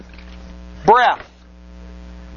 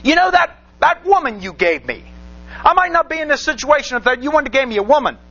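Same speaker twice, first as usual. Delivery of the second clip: Adam blaming God; 3 semitones higher, faster than usual. Retold or imitated. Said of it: "it sounds to me like Adam might be blaming God".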